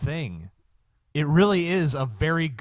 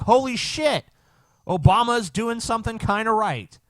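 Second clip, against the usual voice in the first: higher-pitched, re-enacted astonishment; retold amazement; 8 semitones higher than usual. Host retelling his reaction to the news, amazed. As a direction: replay your own pleasant shock, pitched up. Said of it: "that's what I said when I saw it".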